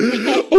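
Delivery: sharp sobbing intake of breath; ugly-cry gasp. Retold or imitated. Son mimicking his ugly cry, sobbing gasp. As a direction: gasp mid-sob. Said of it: "it's the cry where you're like".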